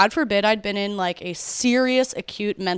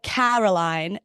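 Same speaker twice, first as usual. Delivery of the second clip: put-on uppity British accent; 3 semitones lower, slower than usual. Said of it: "a British accent ... feeling uppity".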